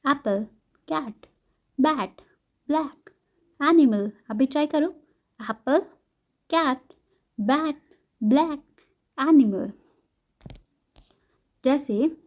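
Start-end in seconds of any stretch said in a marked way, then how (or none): 0.1-4.1 very short A in "एप्पल, कैट, बैट, ब्लैक, एनिमल". Shown as a demonstration. Teacher modelling words for students to copy, short A. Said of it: "ए का pronunciation जो है वो बहुत short है". 5.4-9.7 very short A in "एप्पल, कैट, बैट, ब्लैक, एनिमल". Shown as a demonstration. Teacher modelling words for students to copy, short A. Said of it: "वो बहुत short है".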